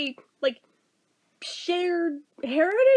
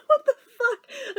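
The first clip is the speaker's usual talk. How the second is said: slow baffled curse; 8 semitones higher, slower than usual. Real, not acted. Disbelief at doppelganger.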